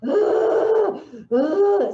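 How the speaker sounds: high, loud choked wail in imitation; imitated choked crying. Imitating the crying girl in the ward, a loud choked wail. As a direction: mimic a girl's strangled sob. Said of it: "era aquele choro assim".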